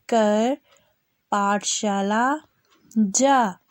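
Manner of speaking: drawn-out syllables, each sounded clearly; slow spelling drill. Shown as a demonstration. Teacher spelling out a sentence for children, slow and clear. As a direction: spell it out slowly for young learners.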